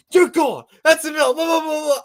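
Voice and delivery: a hint of an angry umpire; mock umpire shout. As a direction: play the umpire tossing him. Umpire ejection retold.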